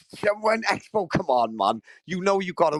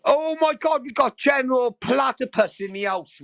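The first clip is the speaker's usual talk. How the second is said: excited greeting; 5 semitones higher than usual. Real, not acted.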